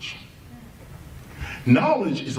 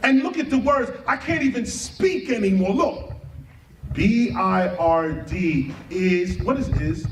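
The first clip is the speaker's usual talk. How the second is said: odd speaking manner. Real, not acted. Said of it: "why am I speaking like this?".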